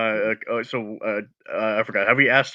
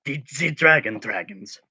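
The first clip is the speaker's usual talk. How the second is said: Steve's puzzled question; 3 semitones higher than usual. Acted. Adventurer asking bartender about dragons, puzzled character voice. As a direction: rise high, then drop for the clarification. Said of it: "Steve is going to ask".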